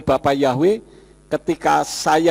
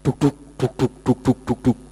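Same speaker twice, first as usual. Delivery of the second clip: bunyi detak jantung; 6 semitones lower than usual. Retold or imitated. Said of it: "jantung saya berdetak keras".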